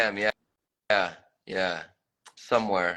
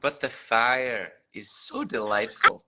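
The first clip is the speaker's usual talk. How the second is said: Scottish accent. Shown as a demonstration. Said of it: "in a Scottish accent".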